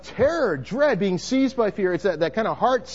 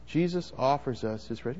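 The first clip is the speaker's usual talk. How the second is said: softer, as if to the person beside you; to your neighbour; 4 semitones lower, 6 dB quieter than usual. Shown as a demonstration. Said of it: "Say that to the person next to you".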